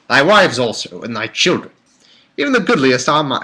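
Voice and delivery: badly faked British scripture reading; hammed-up attempt at British English; attempted British accent. Shown as a demonstration. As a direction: imitate a British narrator, amateurishly. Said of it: "I can't do a British".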